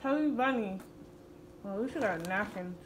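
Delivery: garbled through marshmallows; mouth full. Real, not acted. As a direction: talk with stuffed cheeks.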